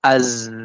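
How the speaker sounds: "Az" with a long buzzing z; flowing sound. Shown as a demonstration. Teacher shows flowing zai, "Az" buzzing on. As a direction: sustain the z of "Az". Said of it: "Nah, ngalir".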